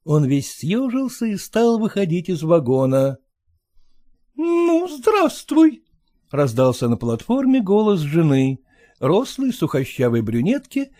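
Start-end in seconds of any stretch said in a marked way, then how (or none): 4.3-5.8 high, sharp greeting from a wife; stern wife. Acted. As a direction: greet him coldly, pitched up.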